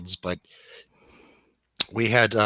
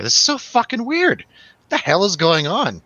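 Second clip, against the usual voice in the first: retold bewildered freak-out; 8 semitones higher, 3 dB louder than usual. Retelling his bewildered panic on acid.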